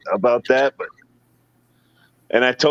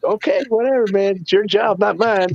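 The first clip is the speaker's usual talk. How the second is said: dismissive whatever; 8 semitones higher than usual. Retold or imitated. Brushing off the friend.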